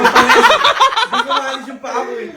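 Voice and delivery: slow, high laughing complaint. Real, not acted. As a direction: stretch it out through laughter. Telling how it hurt, laughing. (mabagal na tawang nagrereklamo)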